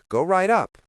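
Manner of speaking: the desk guy's slight Eastern European lilt; Eastern European accent. Acted. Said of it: "with his flight Eastern European accent".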